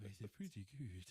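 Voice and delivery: badly faked Italian accent. Giant repeats his verdict, bad Italian accent. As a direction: attempt a cartoon Italian and miss. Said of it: "that wasn't an Italian accent".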